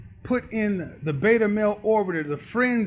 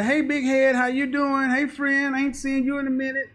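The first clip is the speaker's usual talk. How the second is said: lightly higher, a mild sweet-talking woman; Sheila's flirty greeting; 4 semitones higher than usual. Retold or imitated. Sheila sweet-talking Keith, lightly higher voice. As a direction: chat him up like an old friend. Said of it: "Sheila gives Keith the".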